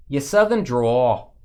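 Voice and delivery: stretched-out, put-on Wisconsin accent; mock Wisconsin accent. Imitating Wisconsin friends teasing about the drawl, mock Wisconsin accent. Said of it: "if that sounds like Wisconsin".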